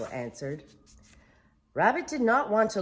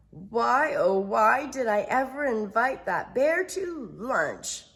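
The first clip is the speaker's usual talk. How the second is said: moaning; 6 semitones higher, 6 dB louder than usual. Acted. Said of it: "moaned Rabbit".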